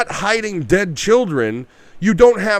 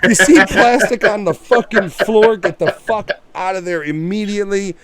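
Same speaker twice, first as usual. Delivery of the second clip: loud, high and urgent; emphatic warning; 5 semitones higher, 5 dB louder than usual. Real, not acted. A podcaster urging listeners to flee the plastic, loud and high. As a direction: hammer home the warning. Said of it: "urgent warning to listeners".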